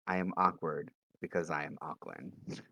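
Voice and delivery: low, slow, hushed self-talk; whispering to himself. Acted. Player voicing a character talking only to himself, quiet mutter. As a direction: murmur it slowly under your breath. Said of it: "like, whisper to himself".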